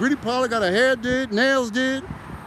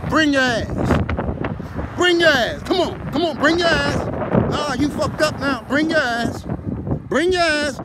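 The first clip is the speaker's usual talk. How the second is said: street challenge; 3 semitones higher than usual. Retold or imitated. Calling out challenger to race.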